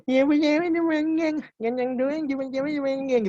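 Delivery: high, slurred mumbling with vowels smeared; deliberately sloppy, unclear diction; bad articulation example, words run together; mumbled articulation. Shown as a demonstration. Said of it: "Contoh yang salah adalah".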